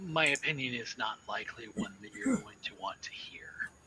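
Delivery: quiet snickering under the breath. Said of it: "Carmine kind of snickers under his breath and says".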